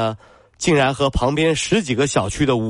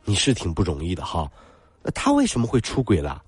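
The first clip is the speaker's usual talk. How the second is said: preachy bystander; 3 semitones lower than usual. Retold or imitated. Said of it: "他会有这样的一种声音".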